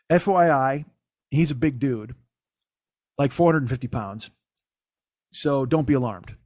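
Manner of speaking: measured, matter-of-fact text read-out; deadpan retold group text. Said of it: "And, uh, it says".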